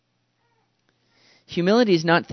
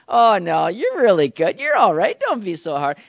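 effusive reassurance; 3 semitones higher, 6 dB louder than usual. Acted. Congregation reassuring the falsely humble singer, effusive mock reassurance.

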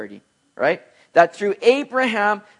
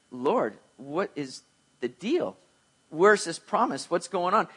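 puzzled Abraham; 6 dB quieter than usual. Retold or imitated. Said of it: "he's thinking like".

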